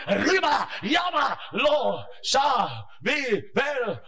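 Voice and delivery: loud, high wild glossolalia; loud ecstatic tongues; speaking in tongues. Pretend. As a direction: burst into tongues. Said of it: "And then I go".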